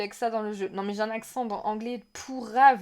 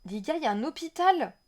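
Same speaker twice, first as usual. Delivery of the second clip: excited, to viewers; 5 semitones higher, faster than usual. Real, not acted. Repeats it to the viewers.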